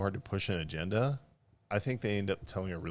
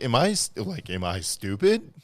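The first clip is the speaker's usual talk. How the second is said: wife's dumb husband voice; 3 semitones higher, 6 dB louder than usual. Retold or imitated. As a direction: drag it out like a wife imitating her dopey husband. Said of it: "never pleased with how I sound".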